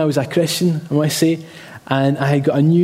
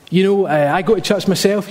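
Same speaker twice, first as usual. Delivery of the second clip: imitated dad's rant, pitched up; 4 semitones higher than usual. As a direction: mimic a dad holding forth. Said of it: "in a bit of a rant".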